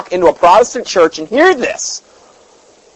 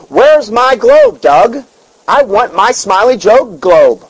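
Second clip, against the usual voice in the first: slow, higher whine of a greedy preacher; mock TV preacher; 4 semitones higher, slower than usual. Preacher mocked to the congregation, slow, whiny and higher. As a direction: drawl out the demand for a globe like a pampered televangelist.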